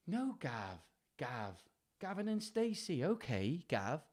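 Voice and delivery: tentative Welsh accent. Shown as a demonstration. Reader hunts for a Welsh accent through Gavin and Stacey. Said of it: "How do you do Welsh?".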